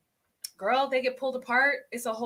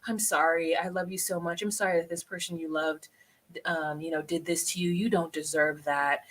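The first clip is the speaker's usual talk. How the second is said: mock consoling; 4 semitones lower, 6 dB quieter than usual. Shown as a demonstration. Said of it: "what you do is you go".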